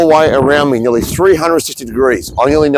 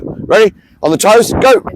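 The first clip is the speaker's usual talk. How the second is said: raised, higher coach call; calling the start; 6 semitones higher than usual. Real, not acted. Coach starts the drill with a raised call. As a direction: cue the drill sharply.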